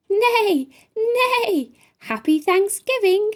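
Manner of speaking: high, sweet neighing horse voice; a gentle horse sighing hello. A narrator's reading. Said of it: "sighed Horse so sweet".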